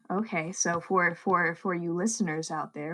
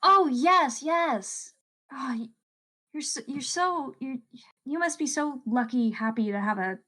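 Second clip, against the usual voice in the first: polite visitor; 7 semitones higher than usual. Acted. Player answers Bertha in voice.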